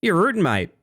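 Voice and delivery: high, mock broad Australian bogan. Streamer teasing chat in a mock Australian bogan voice. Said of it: "talk to you like a fucking bogan".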